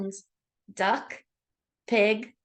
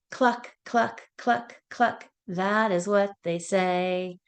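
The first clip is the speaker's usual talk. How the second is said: sing-song nursery rhyme voice; reading to a toddler; 2 semitones higher than usual. Acted. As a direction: chant it brightly for little kids. Sing-song animal rhyme for kids.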